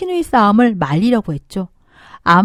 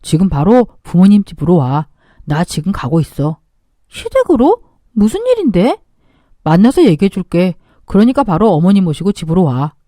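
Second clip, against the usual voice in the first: grim husband; 4 semitones lower than usual. Acted. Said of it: "당신 목소리가 왜 그래?".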